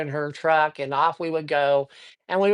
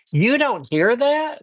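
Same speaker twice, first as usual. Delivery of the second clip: higher, drawn-out incredulous question; mock disbelief; 6 semitones higher, 3 dB louder, slower than usual. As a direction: question it slowly, as if retelling her disbelief. Acted disbelief of startled friend.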